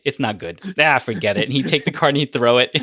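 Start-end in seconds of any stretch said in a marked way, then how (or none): 0.0-1.4 Norm impression. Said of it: "he'd admit it".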